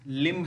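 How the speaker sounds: "लिम" ending on the M, no B; silent B. Shown as a demonstration. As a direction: say "लिम" with the final B left silent. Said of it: "इसमें बी का pronunciation नहीं करेंगे".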